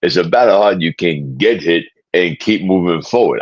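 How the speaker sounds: put-on slurred Rocky Balboa voice; Rocky impression. Fan quoting his favorite film, Rocky impression. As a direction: do the movie boxer's motivational speech.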